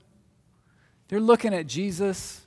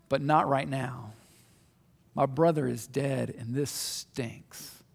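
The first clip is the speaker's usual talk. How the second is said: 1 weary Martha; 4 semitones lower than usual. Retold or imitated. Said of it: "And Martha goes".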